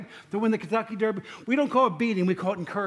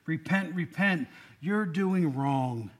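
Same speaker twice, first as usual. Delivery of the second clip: put-on old-fashioned scolding; 3 semitones lower, 3 dB quieter, much slower than usual. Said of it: "kind of old-fashioned".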